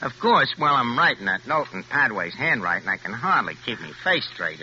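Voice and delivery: a hint of a Brooklyn tough guy, chuckling to himself; a crook gloating over his own letter; lightly voiced gangster reading a letter. Crook reads his boastful letter to Harry, gloating.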